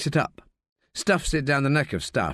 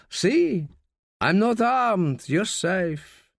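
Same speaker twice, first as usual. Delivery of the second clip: mock surrender; 7 semitones higher, much slower than usual. Raoul teasing Frog, pockets out.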